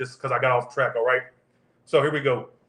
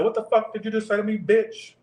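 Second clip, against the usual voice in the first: pitched way up, mock furious challenge; retold angry confrontation; 7 semitones higher than usual. Retelling going off on a friend, mock furious challenge. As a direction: replay the moment you snapped at her. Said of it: "So I said".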